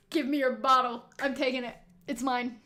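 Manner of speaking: snatch it, loud and greedy; greedy demand. Shown as a demonstration. Streamer's second try, greedily demanding the bottle. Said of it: "I'll do one more".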